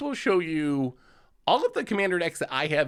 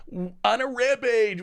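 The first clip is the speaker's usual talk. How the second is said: fighting game announcer; 8 semitones higher than usual. Retold or imitated. Announcer callout repeated louder.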